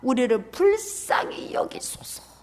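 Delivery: slow, hushed 불쌍히 breathed out; a retold yell done as a slow whisper; whispered plea. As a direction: whisper the cry for mercy instead of shouting. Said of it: "더욱 소리질러 이르되".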